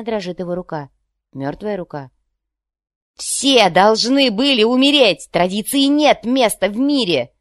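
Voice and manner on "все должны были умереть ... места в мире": high, very loud, slow fanatical yell. Acted. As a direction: bellow each word in rage. Banum keeps yelling. (медленный яростный крик)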